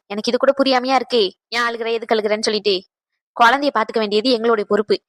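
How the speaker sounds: calm her down like an elder; tender consoling aunt; soothing. Acted. Elder soothing crying bride.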